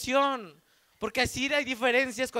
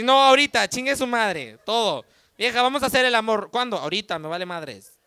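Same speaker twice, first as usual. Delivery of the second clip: mock eager husband; 5 dB louder than usual.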